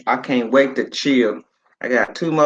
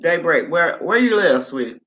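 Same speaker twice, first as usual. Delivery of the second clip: higher call to a viewer; 5 semitones higher than usual. Real, not acted. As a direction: lift the voice and ask her. Calling out to viewer again.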